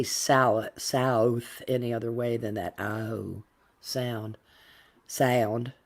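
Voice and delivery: South and sound with a drawn-out "ow"; Southern diphthong. Shown as a demonstration. Explaining a lasting habit, South with a broad diphthong. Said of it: "I do have the diphthong".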